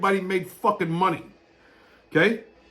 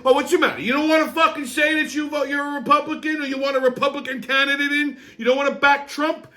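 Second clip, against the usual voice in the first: raised, higher-pitched scornful yelling at the guy; scornful retort; 6 semitones higher, faster than usual. Retold or imitated. Ranting at the liberal guy in his head, yelling scornfully. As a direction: fire it back at him like an insult. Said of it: "I'm thinking to myself".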